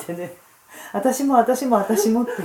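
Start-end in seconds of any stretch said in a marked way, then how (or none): 0.9-2.2 louder, higher "me too" crowd imitation; imitated eager clamouring. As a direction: re-enact everyone begging at once. Participants clamouring for a copy, retold. (我も我もとせがむ口真似)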